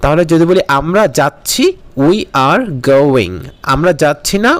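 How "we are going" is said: very slow, word by word; slow model sentence. Shown as a demonstration. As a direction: spell it out for the class. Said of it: "model sentence drill". (খুব ধীরে, প্রতিটি শব্দ আলাদা করে)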